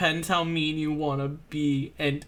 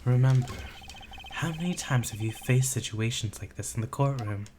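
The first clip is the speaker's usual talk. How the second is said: tag; 4 semitones lower, 3 dB quieter than usual. Acted. Voices Edgeworth's inner monologue.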